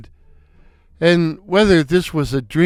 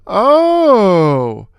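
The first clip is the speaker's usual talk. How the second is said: wisecracking Mo; 2 semitones higher, 3 dB louder than usual. Acted. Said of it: "Mo cracked".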